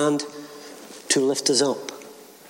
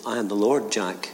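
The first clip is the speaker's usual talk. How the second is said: lower, softer, calm voice from above; voice of God; 3 semitones lower, 4 dB quieter than usual. Acted. God answering Jack on the cliff, low and calm. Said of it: "The voice said".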